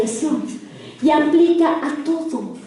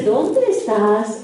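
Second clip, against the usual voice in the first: calm God; 5 semitones lower, much slower than usual. Acted. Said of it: "un señor que no tiene ni sombra ni variación".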